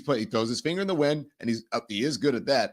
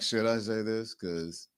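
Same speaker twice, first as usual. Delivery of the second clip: hushed, much softer and lower; mock whisper; 9 semitones lower, 10 dB quieter than usual. Host imitating Vance whispering the insult. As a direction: whisper it like a guilty secret. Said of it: "he's like".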